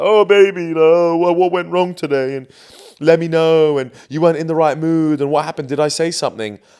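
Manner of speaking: loud, fawning, needy, simpering voice. Mocking a desperate boyfriend asking what went wrong: put-on needy simp voice. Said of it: "when I do that voice, you know, I'm just, like, being that beta simp".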